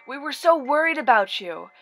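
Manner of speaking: loud worried mother; yell. Acted. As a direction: shout it with relief. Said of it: "her mother yelled".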